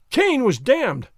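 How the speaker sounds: loud, slow cry of accusation; a slow, ringing outcry. A narrator's reading. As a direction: call it out slowly and loudly, like a prophet. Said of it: "I cried".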